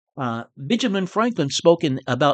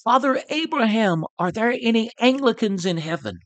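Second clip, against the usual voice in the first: raised high, calling upward to Abraham; preacher calling high toward heaven; crying out to heaven; 5 semitones higher than usual. Retold or imitated. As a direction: call up to the balcony of heaven. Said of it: "cried out".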